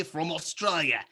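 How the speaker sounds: a brief slip into Aussie accent; Australian accent. Shown as a demonstration. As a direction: lightly put on Australian for the country name. Mimics Australian accent while explaining Outback.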